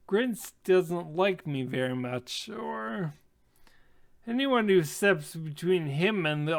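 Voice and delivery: mildly sheepish, hesitant phrasing. Acted. Half-elf approaching strangers after the quarrel, mildly sheepish. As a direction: admit it a little awkwardly, with pauses. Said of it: "but sheepishly".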